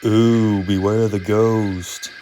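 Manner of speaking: mocking spooky ooh, slow beware; teasing. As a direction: tease him with a fake spooky tone. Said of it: "Gordon teased".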